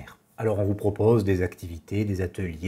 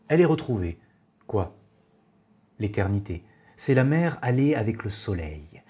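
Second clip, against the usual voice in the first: measured poem reading with pauses between lines; poetry recitation. Acted. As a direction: recite the verse evenly, letting each line settle. Reads Rimbaud's poem aloud.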